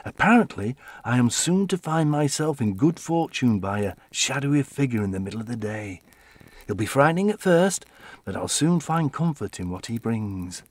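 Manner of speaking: bubbly, breathless retelling, pitch up; a giddy wife gushing about her fortune; giddy excitement. Acted. Evelyn quoting fortune, excited.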